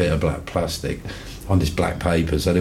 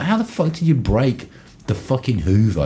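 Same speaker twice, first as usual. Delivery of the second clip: mock exasperation; 8 semitones higher than usual. Retold exasperation at flatmate.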